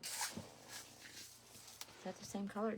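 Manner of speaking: slow breathy whisper to herself; whispered doubt. Real, not acted. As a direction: squint and whisper the question. Peering at resin colour, to herself.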